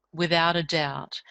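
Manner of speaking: breathy whisper of certainty; whispered conviction. Real, not acted. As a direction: whisper it like a secret truth. Intense conviction, dropped voice.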